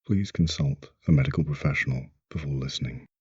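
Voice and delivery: brisk, measured safety notice; disclaimer read. Acted. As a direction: read out a formal warning before the session. Reads a recorded safety disclaimer.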